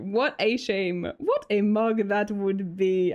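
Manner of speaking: slow, deliberate mock-British; attempted British accent. Streamer replaying the donation message, slow mock-British accent. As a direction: draw it out in a would-be British accent. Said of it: "that's not British".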